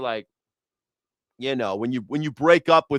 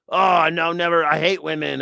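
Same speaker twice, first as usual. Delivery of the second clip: half-hearted mock rant, a bit louder; mock heartbroken rant; 4 semitones higher, 4 dB louder than usual. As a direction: play a jilted guy swearing off women, lightly. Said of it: "I've definitely been like".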